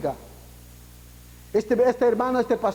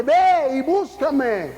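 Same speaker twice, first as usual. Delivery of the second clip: urging call; 4 semitones higher, much slower than usual. Acted. God urging, louder.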